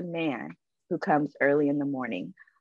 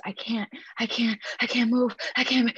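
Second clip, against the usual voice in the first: panicked; 5 semitones higher than usual. Retold or imitated. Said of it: "And she's".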